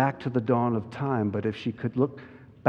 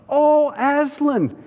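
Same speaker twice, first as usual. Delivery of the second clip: high, loud, drawn-out cry; slow high-pitched joyful shout; children crying out; 13 semitones higher, 6 dB louder, slower than usual. A narrator's reading. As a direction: exclaim as overwhelmed children in a story. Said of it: "cried both children".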